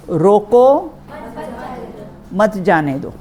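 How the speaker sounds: रोको loud, high and rising, then a long pause; long break between रोको and मत; pause after रोको. Shown as a demonstration. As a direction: call out रोको, hold, then say मत जाने दो. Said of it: "एक बात, और फिर".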